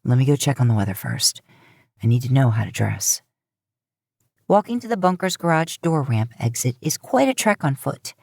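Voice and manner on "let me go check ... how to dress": a man speaking casually to his brother; Dean voice. Acted. Dean tells Sam about the weather, lower voice.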